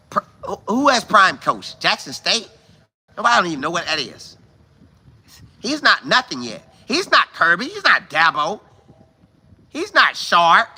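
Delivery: ordinary talk, nothing marked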